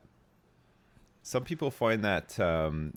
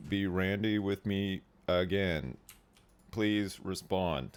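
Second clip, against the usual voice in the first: robotic Alexa call. Pretend. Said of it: "She just phones the F B I".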